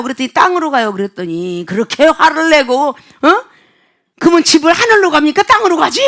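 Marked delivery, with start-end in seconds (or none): 4.2-6.0 fast, loud, high retort; mock angry outburst. Mover fuming at a customer's question, imitated angry outburst. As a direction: snap back in imitated exasperation. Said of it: "이러고 막 그냥 난리를 쳐요".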